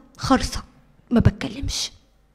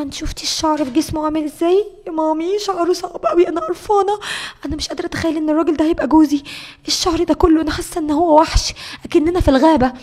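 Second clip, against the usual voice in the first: disgusted complaint; 2 semitones higher, 3 dB louder than usual. Retold or imitated. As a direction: complain in revulsion, pitch lifted. تشتكي لأمها باشمئزاز. (شكوى بقرف وصوت أعلى)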